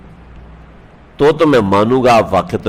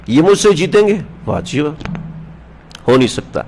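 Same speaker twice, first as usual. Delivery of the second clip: scoffing disbelief; 3 semitones higher than usual. Retold or imitated. Wrestler scoffing at the challenge.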